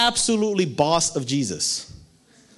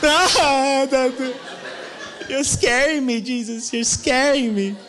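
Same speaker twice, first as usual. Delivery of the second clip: mock-scared disciple; 4 semitones higher than usual.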